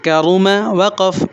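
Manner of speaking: slow, stretched کرم with a full heavy را; slow recitation. Shown as a demonstration. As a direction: draw out کرم slowly, thick را. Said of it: "یہاں پر الف آ رہا ہے". (آہستہ، موٹی را کے ساتھ کرم)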